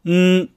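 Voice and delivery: "ん" held as a pure n; tongue tip on the upper gum ridge for ん; sustained alveolar hum on ん; n sound. Shown as a demonstration. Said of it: "エネのんという音になる".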